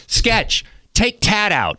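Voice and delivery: high mock producer voice; squeaky comic impression of a coworker; imitating his producer. Host imitates his old producer's order, high and squeaky. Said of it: "remember you go".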